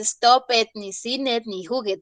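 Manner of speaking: "stop it, sin it, juguet" each ending in a separate "ed" syllable; wrong extra syllable. Shown as a demonstration. Teacher warning students against this, Spanish-style extra syllable. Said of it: "en el inglés no se dice así".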